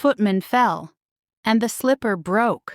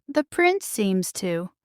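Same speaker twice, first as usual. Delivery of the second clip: jealous; slower than usual. Acted. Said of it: "said jealously".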